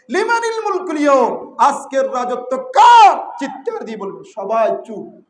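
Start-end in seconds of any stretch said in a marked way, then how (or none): 0.1-3.2 proclaiming shout. Acted. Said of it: "চিৎকার করে বলবেন".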